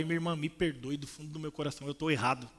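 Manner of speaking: put-on quiet, contrite plea to an elderly sister; humble apology. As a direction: beg forgiveness gently from the heart. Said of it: "Você acha que eu falei isso?".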